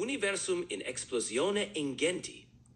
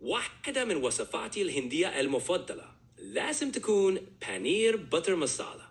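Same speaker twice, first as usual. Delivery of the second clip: Cairo-style Arabic; Egyptian Arabic dialect; faster than usual. Shown as a demonstration. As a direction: speak Egyptian colloquial Arabic. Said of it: "Egyptian-style Arabic".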